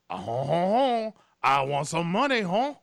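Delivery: gloating mock Jean Reno; Jean Reno impression. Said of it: "Jean Reno is like".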